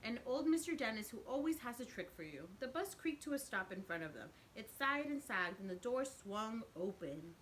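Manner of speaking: lively storybook narration; teacher reading a picture book aloud; reading to children. A narrator's reading. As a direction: read it out to the kids with expression. Reads picture book to class.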